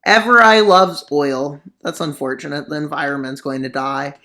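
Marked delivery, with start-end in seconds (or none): 0.1-1.6 louder repeat. Pretend. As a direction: proclaim Everai loves oil, louder.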